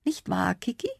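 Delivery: hushed conspiratorial question; soft, secretive whisper. A narrator's reading. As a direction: whisper it to a confidant, lifting at the end. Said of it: "flüsterte der Compsognathus".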